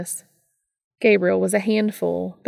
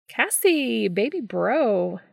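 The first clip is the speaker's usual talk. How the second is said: high, drawn-out gushing hello; gushing greeting; 4 semitones higher, slower than usual. Acted. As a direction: throw it out like a big-brother welcome. Gabriel greets his brother.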